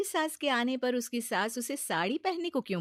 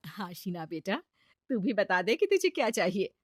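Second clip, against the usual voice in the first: gentle mother-in-law. Acted.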